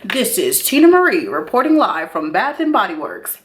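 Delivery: lightly voiced mock news reporter. Vlogger playing a reporter at Bath and Body Works. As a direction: sign off like a live TV reporter. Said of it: "like a news reporter".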